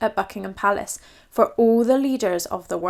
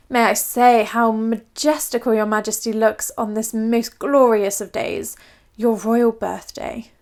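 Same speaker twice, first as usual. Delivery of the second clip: creepy flattery. Acted. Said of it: "creeped the royal portrait painter".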